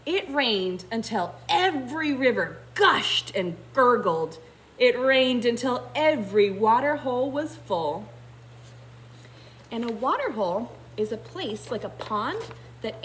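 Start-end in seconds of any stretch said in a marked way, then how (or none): 0.1-8.1 put-on animated reading to children, "every" stressed; story narration. A narrator's reading. Teacher reading of rivers filling, dramatic narration. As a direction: read it with rolling, emphatic momentum.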